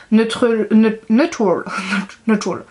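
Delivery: English word attempted in a French accent, with false starts; mauvais accent anglais. Real, not acted. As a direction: stumble over "Neutral" in French-accented English, laughing at yourself. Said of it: "On a un magnifique accent anglais". (accent anglais approximatif, avec autodérision)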